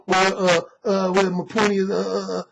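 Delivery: imitating a caught-out caller hemming and hawing; halting uh, well, stumbling over the start; mock stammering. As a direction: caller stalling for words after being caught not reading the book. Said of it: "he starts stammering and stumbling".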